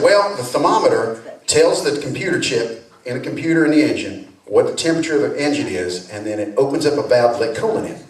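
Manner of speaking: lightly Southern mechanic explaining; a hint of Southern drawl; patient Southern explanation. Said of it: "slipped into a little Southern drawl".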